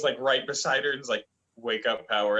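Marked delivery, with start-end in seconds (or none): 1.6-2.4 lightly lowered movie-star voice; a hint of a deep, commanding actor; Denzel Washington. Voicing the devil dog waking Power, lightly deep. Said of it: "like, a Denzel Washington kind of voice".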